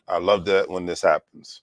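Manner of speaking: dry, mock delight; sarcastic. Real, not acted. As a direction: say it with heavy sarcasm. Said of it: "if you can feel my sarcasm".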